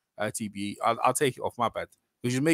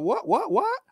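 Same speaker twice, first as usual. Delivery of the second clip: quick repeated questions, pitched up; retold challenge; 14 semitones higher, slower than usual. Acting out the boxer answering disrespect, challenging. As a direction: imitate him bristling, each word a challenge. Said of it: "he started disrespecting Wilder".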